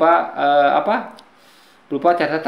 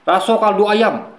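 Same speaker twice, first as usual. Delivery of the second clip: slow, lightly voiced Minang accent; a hint of a Minang accent, drawn out; mild Minang accent, unhurried; 4 semitones higher, slower than usual. Shown as a demonstration. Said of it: "atau orang Minang bahwa".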